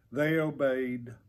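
ordinary delivery

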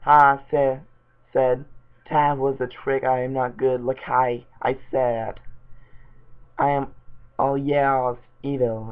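reading voice for a silly story; fanfic reading. Acted. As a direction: read the bad fanfic out straight. Reads Batman fanfic aloud.

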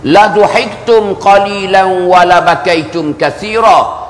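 slow Arabic recitation with long vowels; hadith recitation. Real, not acted. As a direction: recite it slowly, phrase by phrase. Recites second half of the hadith.

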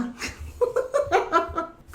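high real giggle; light chuckle; amused laugh. Real, not acted. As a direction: laugh at your own joke. Laughs after the joke.

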